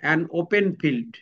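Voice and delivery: very slow, each word apart; slow example. Shown as a demonstration. Teacher reading examples slowly to the class. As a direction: read an open field out slowly. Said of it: "যেমন one".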